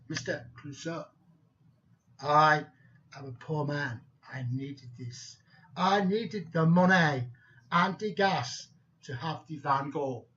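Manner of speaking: mock-solemn confession, mostly low. Poor thief explaining himself to the detective, mock solemn. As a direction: plead your case with hammed-up solemnity. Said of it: "very solemn, looked up and said".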